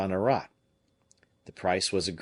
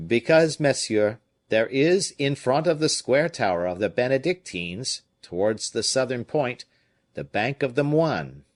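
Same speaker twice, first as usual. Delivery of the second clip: put-on raised, higher, louder old sailor; a rough fisherman pleading his case, higher and louder; fisherman's voice; 4 semitones higher, 4 dB louder than usual. Fisherman telling the comte about the boat, raised and louder.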